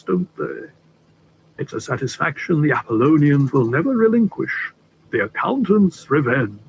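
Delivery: a hint of a courtly older gentleman, unhurried; polite stranger easing into business, lightly played; lightly voiced suave Litchfield. Litchfield needles Calloway.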